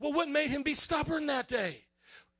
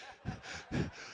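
breathy laugh; 9 dB quieter than usual. Real, not acted. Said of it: "I'm laughing so hard".

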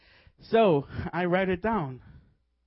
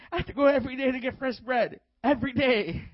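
raised, emphatic self-instruction; acted eager resolve; 6 semitones higher than usual. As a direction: re-enact an excited realization, pitched up. Acts out own eager resolve.

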